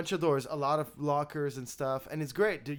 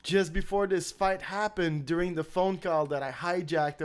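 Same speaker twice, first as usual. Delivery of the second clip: mock indignant; 3 semitones higher, 5 dB louder than usual. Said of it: "And you're like".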